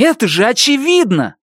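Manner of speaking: put-on boy shouting at the old man. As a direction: yell it as obvious. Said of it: "закричал Бенни".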